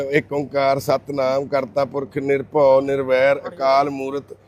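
slow, soft recital of the Mool Mantar; measured devotional chanting, slow and hushed; prayer recitation. Real, not acted. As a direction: recite the prayer slowly and quietly, devoutly. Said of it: "ਆਪਾਂ ਤਾਂ ਮੂਲ ਮੰਤਰ ਦਾ ਪਾਠ ਕੀਤਾ".

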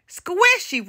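high-pitched storybook giant roar; giant's roar. A narrator's reading. Giant answering the Princess in Black, mock roar. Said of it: "roared the giant".

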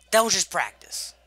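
loud slow outrage; outraged. Real, not acted. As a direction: stretch out the protest. Repeats, louder and slower.

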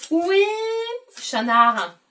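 appel joueur. Pretend. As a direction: question très étirée, aiguë et plus forte. Devinette ludique posée à sa fille. (appel chantant et enjoué)

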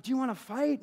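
high-pitched jokey challenge; mock challenge. Shopper jokingly challenging the lady behind him, mock challenge.

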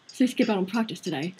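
a British teacher's take on it; British accent. Acted. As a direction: redo the line in a British accent. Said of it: "I'm gonna make him British".

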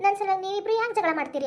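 sneering parody of the mother-in-law's words; wife mocking her mother-in-law in front of her husband, sarcastic; mocking imitation. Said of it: "ಅಂತಾರ".

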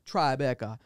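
"Tribeca" as a light island-accent impression; imitated Trinidadian accent. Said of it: "He's like".

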